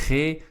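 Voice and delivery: the letter G with rasping back-of-throat friction; G pronounced the Dutch way; Dutch G sound. Shown as a demonstration. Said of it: "a few difficult sounds".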